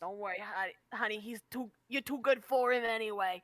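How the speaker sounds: lightly voiced old hag; granny hag. Granny consoling a lovesick customer, lightly voiced hag. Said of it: "like, a hag with that voice".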